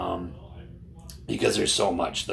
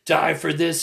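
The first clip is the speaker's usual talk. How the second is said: imitated yelling; 7 semitones higher than usual. Older protester venting at younger man, mock yelling. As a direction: retell his fed-up outburst in a raised pitch. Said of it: "he was just yelling".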